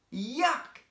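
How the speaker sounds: loud, high cry of disgust; disgusted yuck. Acted. Brian cries out after the seal kisses him, loud disgust. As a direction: recoil from a wet kiss. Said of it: "said Brian, as he fell on the floor in surprise".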